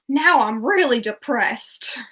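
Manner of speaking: slow, loud, hammed-up misery; mock despair. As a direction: drag out the gloom as a film quote. Performs a favourite film quote.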